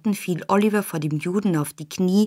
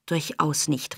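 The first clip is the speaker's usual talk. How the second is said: softer, spent denial; breathless; 3 semitones lower, 7 dB quieter, slower than usual. A narrator's reading. Nancy pale after the struggle, breathless denial. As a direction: get it out on little breath. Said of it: "rief Nancy blass und atemlos".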